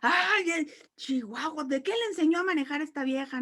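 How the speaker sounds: quick mock yell at another driver; mock road rage. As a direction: play an angry driver, hammed-up. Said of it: "me enojo y le grito".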